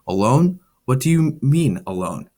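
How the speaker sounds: a mild, understated stammer of alarm; stammered question. Acted. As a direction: blurt the question out in shock. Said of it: "I stammered out the words".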